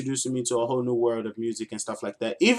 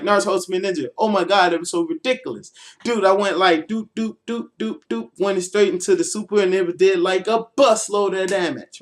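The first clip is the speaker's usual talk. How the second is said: higher, loud, eager retelling of a combo; excited gamer brag; 5 semitones higher, 3 dB louder than usual. Retold or imitated. Freshman hyping a game combo to his friends, high and eager. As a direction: sell the combo like it was epic. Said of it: "So I was like".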